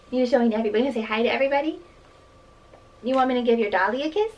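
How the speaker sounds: chirpy and coaxing. Real, not acted. Talking to toddler on camera.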